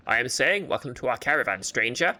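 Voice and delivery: put-on hearty flea master with Russian-French accent. Flea master welcomes stranger to caravan, French-Russian accent. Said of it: "I hear the Russian now".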